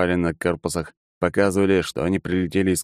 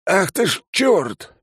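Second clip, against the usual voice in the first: high, drawn-out alarmed oath; startled cry, pitched way up; 13 semitones higher, much slower than usual. Acted. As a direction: recoil in shock as you exclaim. Count recoils on seeing red nickname.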